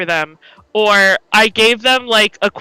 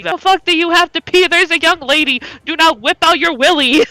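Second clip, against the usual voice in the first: angry homeless man; 7 semitones higher than usual. Retold or imitated. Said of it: "He was like".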